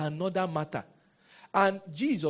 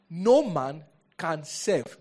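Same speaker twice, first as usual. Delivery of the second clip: No man can serve, drawn out slowly and loud; preacher drumming in the verse; slow hammering; 7 dB louder, much slower than usual. Real, not acted. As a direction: drive each word home slowly. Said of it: "preacher hammers the verse".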